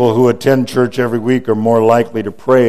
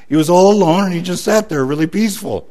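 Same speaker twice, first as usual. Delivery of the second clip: normal talking voice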